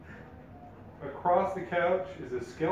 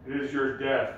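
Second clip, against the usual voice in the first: booming echoing voice; 3 semitones lower than usual. Acted. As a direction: boom it out like an echoing undead king. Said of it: "a booming voice echoes saying".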